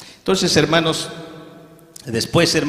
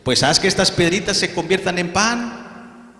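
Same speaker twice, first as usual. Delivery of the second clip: tempting Satan; 6 semitones higher than usual. Acted. The tempter goads fasting Jesus, higher coaxing voice. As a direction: sweet-talk him like a sly tempter. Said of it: "se acerca el tentador y le dice".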